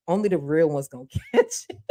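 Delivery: knowing chuckle mid-line; laughing. Real, not acted. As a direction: laugh breaks into "catch it". Repeats line, now laughing.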